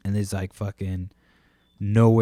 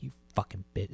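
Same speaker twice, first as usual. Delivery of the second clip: muttered curse, voice dropped softer; under the breath; 8 dB quieter, faster than usual. Retold or imitated. Cursing the parked lady under the breath. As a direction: curse her quietly so she can't hear. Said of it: "just under my breath".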